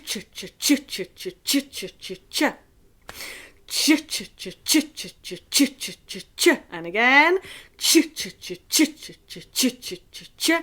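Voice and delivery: quick rhythmic ch pulses; ch sounds. Shown as a demonstration. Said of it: "we're gonna have a ch".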